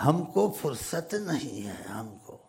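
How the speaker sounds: slow, drawn-out mimicry of an Indian accent. Speaker mimicking how Indians say they are busy, mock Indian accent. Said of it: "ہندوستانی ایسے بولتے".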